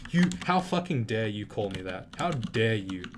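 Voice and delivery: loud, indignant mock fury at a rival; half-acted outrage, punching each word; retold outrage. Retelling a fight with a rival, loud mock outrage. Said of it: "I was like".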